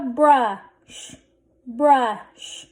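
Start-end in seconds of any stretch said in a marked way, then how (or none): 0.0-1.2 blended slowly. Shown as a demonstration. Teacher sounding out a word for readers, blended slowly. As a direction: brush drawn out, sounds held. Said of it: "Let's read this".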